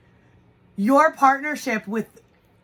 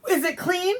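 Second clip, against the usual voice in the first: higher, exasperated venting; lightly voiced frazzled mom; mock exasperated reply; 5 semitones higher than usual. Mom answering husband's laundry complaint, exasperated.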